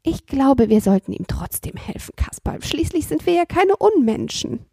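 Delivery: a hint of a kind old woman; gentle and soft. Grandmother asks Kasperl to help the robber, gentle. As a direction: say it mild and gentle. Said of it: "sanft und leise".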